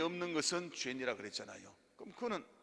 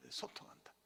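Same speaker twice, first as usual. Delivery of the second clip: echo; 10 dB quieter than usual. Shown as a demonstration. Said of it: "여러분 따라합니다".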